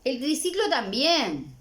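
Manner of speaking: mother tempting her son with bath toys; coaxing mother. Acted. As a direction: coax the child toward the bath. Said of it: "Todo eso lo dice la mamá".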